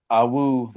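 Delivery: quick playful wolf howl; short wolf howl. Pretend. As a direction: let out a little howl. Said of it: "there's my howl".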